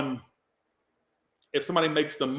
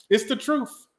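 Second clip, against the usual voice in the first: high, loud, tearful squeak; about to cry; 11 semitones higher, 5 dB louder, slower than usual. Real, not acted. Reader insisting on gratitude to viewers, about to cry. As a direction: voice jumping up with emotion. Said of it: "I'm about to cry for real".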